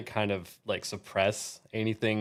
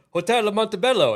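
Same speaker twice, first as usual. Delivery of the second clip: loud hand-talk; 12 semitones higher, 7 dB louder than usual. Retold or imitated. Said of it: "he just goes".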